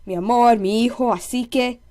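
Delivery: "Mi amor", "mi hijo", "así que" each linked into one word; words run together. Shown as a demonstration. Showing two words sounding like one, "Mi amor, mi hijo, así que" linked pair by pair. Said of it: "always sounding like one".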